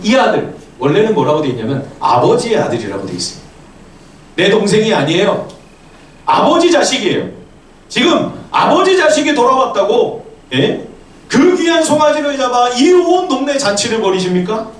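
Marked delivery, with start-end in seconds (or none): 4.4-14.7 high-pitched, affronted protest; indignant accusation. Acted. Elder son objecting to the feast for father's child, indignant accusation. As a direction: disown him and throw it at the father.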